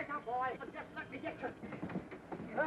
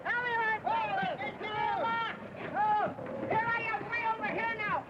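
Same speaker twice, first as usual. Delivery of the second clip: pleading shout; 5 semitones higher than usual. Acted. Desperately calling for help.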